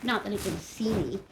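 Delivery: expressive first-person storytelling, measured phrases; story narration. A narrator's reading. Girl stuck in a well tells her story, expressive narration. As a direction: read it as an uneasy girl's account. Reads a novel aloud after chat.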